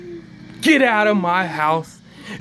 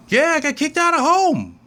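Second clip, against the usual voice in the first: put-on higher matter-of-fact kid; a hint of a little girl; 9 semitones higher than usual. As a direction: say it like a kid who thinks it's normal. Susie voiced, child.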